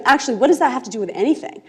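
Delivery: brisk, firmer retort with no laugh; girl regains her anger and retorts quickly; anger back on. Retold or imitated. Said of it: "she gets her anger back on".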